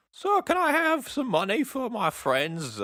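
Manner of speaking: high, slow, badly faked Cockney plea; attempted Cockney accent. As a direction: beg for coins in a high-pitched bad Cockney accent. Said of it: "I can't do a Cockney accent".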